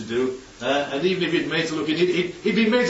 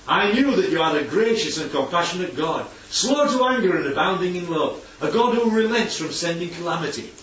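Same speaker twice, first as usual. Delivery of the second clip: grudging criticism; 2 semitones higher than usual. Shown as a demonstration. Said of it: "it's the way that you say it".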